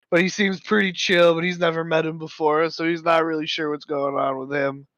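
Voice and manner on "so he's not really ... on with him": put-on a drunk hiccup at the end. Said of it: "did you just drunk hiccup".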